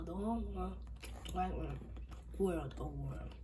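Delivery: stiff halting robot voice. Acted. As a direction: speak like a nervous robot. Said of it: "trying very hard to sound like a robot".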